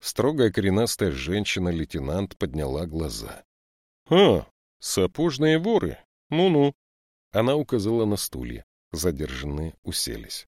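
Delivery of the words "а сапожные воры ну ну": much higher, louder, slowed mock greeting; stern lieutenant. Lieutenant greets the boot thieves, scornful and loud. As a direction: size them up with scornful relish.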